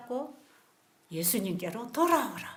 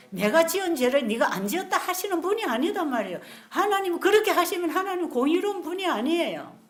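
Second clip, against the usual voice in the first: emphatic preaching; 6 semitones higher, 6 dB louder than usual. Real, not acted.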